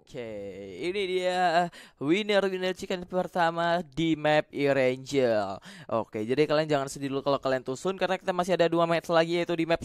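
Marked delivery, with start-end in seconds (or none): 0.8-5.6 slow winner announcement. Real, not acted.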